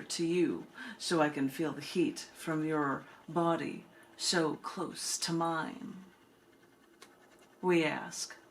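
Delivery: measured, lilting spoken-word delivery; unhurried poem recital with pauses between lines; poetry reading. Acted. Reads her poem at book reading.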